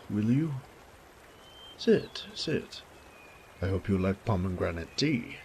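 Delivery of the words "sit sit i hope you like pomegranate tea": bustle the guest into a chair; the host hurriedly seating his visitor; fussy hosting. Acted. Baron ushers guest to table.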